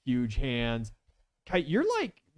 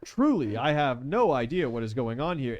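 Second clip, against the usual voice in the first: lightly voiced courteous rogue, higher; polite gentleman villain; 3 semitones higher, 5 dB louder than usual. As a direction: feign innocence with fussy politeness.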